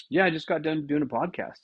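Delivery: high put-on voice for the bragging friend; mock buddy voice. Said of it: "this guy goes".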